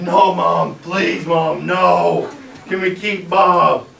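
imitated pleading, drawn out at the end; retold begging. Son begs Mom to keep his bullfrog, acted-out pleading. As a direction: plead like a kid begging a parent. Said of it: "you know, I begged her".

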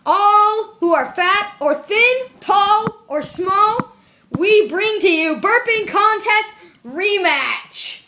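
grand announcer intro. Acted. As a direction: hype it up like a ring announcer. Announcer opening a contest.

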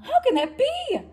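very high disbelief; a mom who can't make sense of it; bewildered Mama. Acted.

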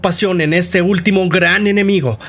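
animated storytelling, pitched above the chatty voice; dramatic game-recap narrator; story narration. A narrator's reading. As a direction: recount a dark tale with emphatic flow.

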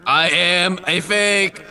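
slow mock announcement. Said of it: "Just sing over it".

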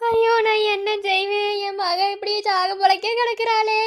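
sobbing sing-song lament over her daughter; wailing lament. Acted. Mother wailing over her dying daughter, sobbing lament. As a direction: wail it like a mourning chant.

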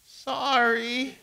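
small, high, squeaky apology. Retold or imitated. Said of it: "got this squeaky voice".

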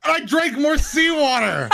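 loud high laugh through the words, slow; real cackling laugh; laughing shout. Real, not acted. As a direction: crack up as you confess it. Laughs at his own mistake.

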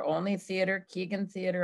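ordinary delivery

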